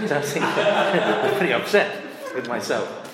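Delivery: amused, laughter breaking up the speech; laughing while talking. Real, not acted. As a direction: chuckle through the words. Laughing at his own story.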